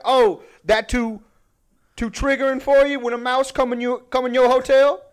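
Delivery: high mock Cajun questioning; Cajun guy voice. Host acting out a show for departing audience, mock Cajun guy voice. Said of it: "like, Cajun guy voice".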